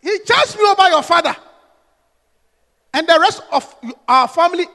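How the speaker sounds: husband firing back; sharp loud retort. Acted. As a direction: throw it back at her. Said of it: "he had a sharp mouth".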